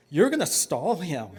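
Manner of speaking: measured, firm order to a brother; firm instruction. Acted. Child instructing brother to stall the rabbi, firm. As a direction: lay out the plan without raising your voice.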